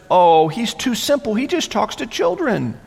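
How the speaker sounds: scornful sneer at the prophet; dismissive mock, lightly voiced. Mockers sneering at the prophet, lightly voiced scorn. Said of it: "that tone of voice is probably written".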